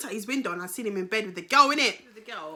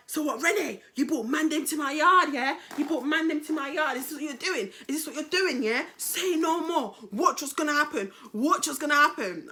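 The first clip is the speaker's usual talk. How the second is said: higher mock outrage; lightly voiced indignant man; 4 semitones higher than usual. Man confronting Renee over visitors, acted indignation. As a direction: imitate his affronted threats.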